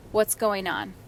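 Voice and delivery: calm check-in. Retold or imitated. Mom checks in with her angry son, calm. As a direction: ask your child evenly, without alarm. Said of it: "now I'm talking to my son".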